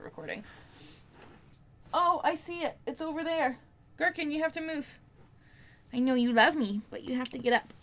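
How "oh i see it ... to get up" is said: higher sing-song pet voice; talking to the dog. Real, not acted. Owner coaxing her dog Gherkin to move, higher pet-talk voice. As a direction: coax the dog sweetly off the spot.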